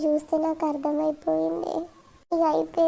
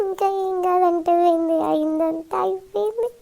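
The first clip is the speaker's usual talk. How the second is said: acted crying; 2 semitones higher, 4 dB louder than usual. Girl rejecting her aunt's comfort, tearful protest. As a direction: protest tearfully, stretching out the ending. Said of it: "please ఏడవకే Amrutha".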